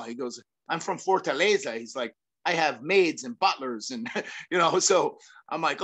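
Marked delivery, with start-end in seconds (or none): 0.7-1.8 lightly imitated Brazilian accent; George Gurgel. Friend explaining he's from Fortaleza, imitated Brazilian accent. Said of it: "do my best George, uh, accent". 2.4-3.9 lightly imitated Brazilian accent; George Gurgel. Friend explaining his sheltered upbringing, imitated Brazilian accent. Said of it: "do my best George, uh, accent".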